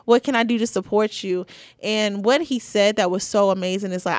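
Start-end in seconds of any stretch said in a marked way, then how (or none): 0.0-1.5 uncle gassing her up. Retold or imitated. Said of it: "he's gonna gas you up".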